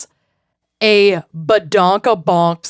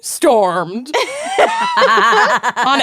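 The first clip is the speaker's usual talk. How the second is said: mock dramatic alarm; 10 semitones higher, slower than usual.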